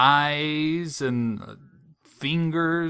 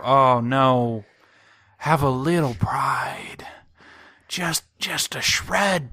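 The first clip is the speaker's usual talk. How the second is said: indignant scolding; 5 semitones higher, 5 dB louder, slower than usual. Retold or imitated. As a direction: scold them with outrage, then beg for a shred of pride. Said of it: "I'm like".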